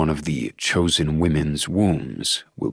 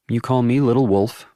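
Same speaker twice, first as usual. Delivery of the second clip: put-on young woman voice; 7 semitones higher, 3 dB louder than usual. A narrator's reading. Willow's teasing line.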